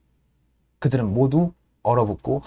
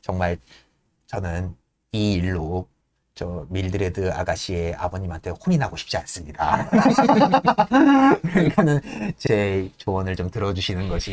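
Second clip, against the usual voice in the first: pleading servant; 6 semitones lower than usual. Retold or imitated.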